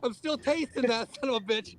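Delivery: talking right after swallowing a bug; spluttering with a bug in the throat; just swallowed a bug. Real, not acted. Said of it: "I had a bug fly right into my fucking mouth".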